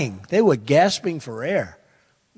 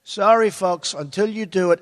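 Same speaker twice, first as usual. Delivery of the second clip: polite; 4 semitones higher than usual. Retold or imitated. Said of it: "very nicely, with respect".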